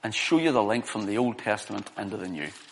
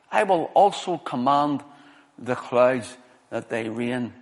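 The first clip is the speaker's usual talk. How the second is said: slow, deliberate proclamation of scripture; scripture reading. Real, not acted. Preacher reads out God's judgment on the vineyard, solemn scripture reading. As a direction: declare each phrase with weight, pausing between them.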